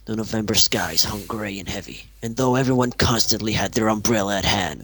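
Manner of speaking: Max Payne style noir narration; brooding hardboiled storyteller; noir detective. Acted. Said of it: "I could do a Max Payne thing".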